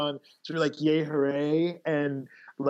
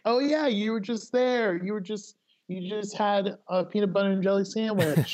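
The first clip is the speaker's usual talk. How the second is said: mock excited fan; 6 semitones higher than usual. New acquaintance who follows you online, higher mock gushing voice. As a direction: gush like a stranger who knows your day. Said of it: "they're like".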